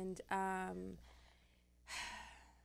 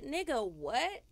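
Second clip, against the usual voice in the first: stunned disbelief; 4 dB quieter, much slower than usual. Retold or imitated. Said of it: "I feel so disrespected".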